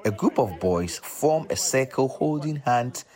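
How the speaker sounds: polished presenter read with punched key words; scripted, deliberate radio narration; documentary narration. Acted. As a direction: set up the story for radio listeners.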